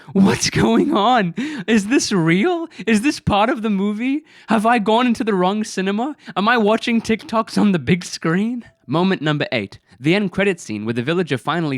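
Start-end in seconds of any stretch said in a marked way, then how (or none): 0.1-8.6 high-pitched, mounting disbelief in rapid-fire questions; incredulous. Retold or imitated. Baffled viewer sitting in the cinema, high incredulous questioning. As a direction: relive utter bafflement, pitched well up.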